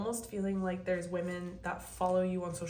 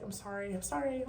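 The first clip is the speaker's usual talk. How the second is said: put-on apologetic girlfriends. Imitating girlfriends who keep saying sorry, mock-apologetic. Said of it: "They're just like".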